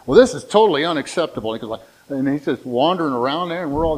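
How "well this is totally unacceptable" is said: quick, louder mock indignation; indignant complaint. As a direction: act out a fussy customer's protest. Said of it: "he's making a big deal about this".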